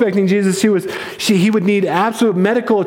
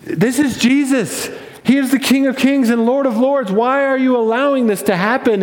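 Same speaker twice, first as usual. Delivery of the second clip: higher-pitched puzzled protest; baffled angels; 4 semitones higher than usual. Acted. Angels question the Father about Jesus's mistreatment, baffled. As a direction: appeal upward in disbelief, voice raised in pitch. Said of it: "they are absolutely confused".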